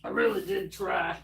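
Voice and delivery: high, soft, squeaky whine. Pretend. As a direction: whimper it in a tiny high voice. Repeats the line in a squeaky voice.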